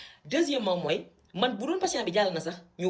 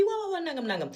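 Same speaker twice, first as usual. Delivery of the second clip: imitating the professor; 10 semitones higher than usual. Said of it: "Il a dit".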